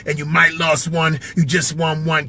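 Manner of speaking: battle rapper impression; lightly impersonated rap line, spoken as a diss; a rapper. Rapper battling another rapper, light impression of a rapper. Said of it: "I know this rapper a little bit".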